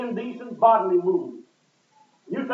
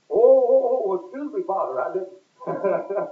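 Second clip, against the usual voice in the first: flustered apology; 3 dB louder, slower than usual. Retold or imitated. Clerk backs down to priest.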